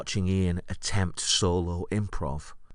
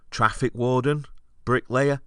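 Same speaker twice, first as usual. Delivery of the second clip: higher, louder mock-disbelief; incredulous scorn; 6 semitones higher, 4 dB louder than usual. Comic treating the audience as failing him, incredulous. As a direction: throw the suggestions back as scornful questions.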